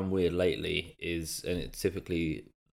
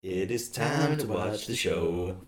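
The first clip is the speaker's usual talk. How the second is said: put-on parent voice; 4 semitones higher, slower than usual. Cold open skit, pet voice.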